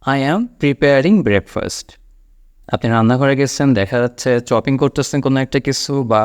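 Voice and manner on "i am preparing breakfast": slow model sentence. Shown as a demonstration. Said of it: "আপনি বলবেন".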